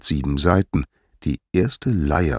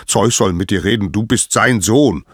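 exasperated anger; 4 semitones higher, 6 dB louder than usual. Acted. Apollo fed up with Hermes.

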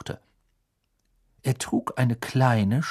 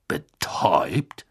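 whispered disbelief; 7 semitones lower, much slower than usual. Acted. Bagman stunned by news.

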